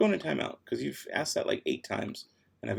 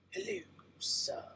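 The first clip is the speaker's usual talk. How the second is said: silly high voice; 13 dB quieter, slower than usual. Pretend. Greeting viewer in silly voice.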